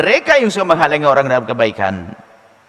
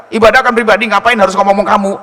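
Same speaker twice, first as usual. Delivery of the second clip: higher, loud sneering taunt; mocking devil voice; 6 semitones higher, 7 dB louder than usual. The devil mocks a worshipper for reporting prayers, sneering. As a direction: jeer like a scornful tempter. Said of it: "Itu biasanya setan yang ngomong gitu".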